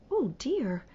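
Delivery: softly whispered worry; girl whispering her unease to herself; uneasy whisper. Acted. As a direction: breathe it out, uneasy.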